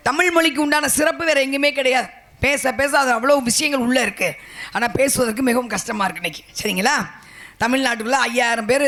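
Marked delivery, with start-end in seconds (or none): none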